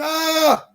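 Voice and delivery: quick mock shriek of the crowd; mock scream. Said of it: "people screaming".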